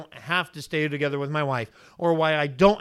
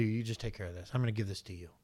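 trusting prayer; 7 semitones lower, 13 dB quieter, faster than usual. Acted.

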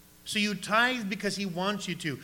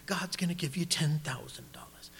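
mock southern preacher, dropping softer; southern televangelist accent; 6 dB quieter than usual. TV evangelist promises money back, mock southern accent. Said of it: "they all have a southern accent".

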